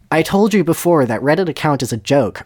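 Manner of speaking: mildly whiny protest; pathetic whine. Acted. Voldemort protests the account was a joke, whining mildly. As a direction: complain with a touch of pathetic whining. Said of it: "Voldemort whined pathetically".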